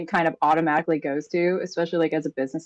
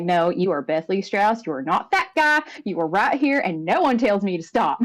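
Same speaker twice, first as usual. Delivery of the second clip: aggressive self-talk; 3 semitones higher than usual. Acted. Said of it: "she is doing aggressive self-talk".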